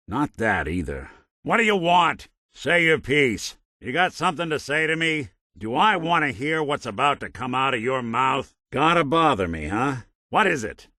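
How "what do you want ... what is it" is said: raised, louder, impatient challenge; irritated. Acted. Investigator annoyed at being bothered by companion, irritated. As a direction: demand it testily, pitched well up.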